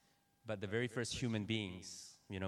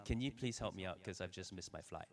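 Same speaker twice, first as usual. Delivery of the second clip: softer, weary and polite; tired polite plea; 3 semitones lower, 8 dB quieter than usual. Retold or imitated. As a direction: ask politely, worn out. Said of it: "I was trying to be polite".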